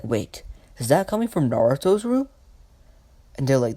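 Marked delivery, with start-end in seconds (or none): 0.0-2.3 mildly startled, pitch climbing high; lightly acted disbelief, rising to a question. Nurses hear screaming from a room, mildly startled.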